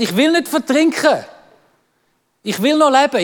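mildly dramatic child's protest, imitated; alarmed refusal. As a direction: plead against drowning, hammed-up. Son refuses to go underwater.

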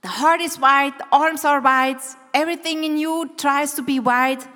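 rally the room with energy; excited urging. Real, not acted. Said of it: "please stand up and try this with me".

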